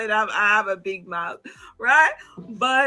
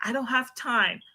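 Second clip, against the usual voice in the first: normal talking voice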